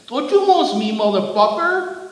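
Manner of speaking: high, loud enraged yell; furious scream. A narrator's reading. Giant screaming at the driver, furious. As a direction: scream it back in outrage. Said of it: "the giant screamed".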